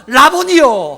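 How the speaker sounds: high, very loud exclamation; acted outburst at full voice; cry of recognition. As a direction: call out to your teacher in sudden recognition. Mary cries out on recognising Jesus.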